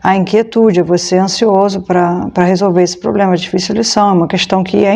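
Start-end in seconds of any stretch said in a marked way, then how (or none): none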